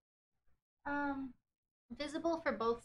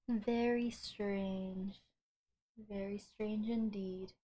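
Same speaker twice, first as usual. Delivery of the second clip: mock suspicious; 2 semitones lower, 5 dB quieter, much slower than usual. Mock-mysterious musing.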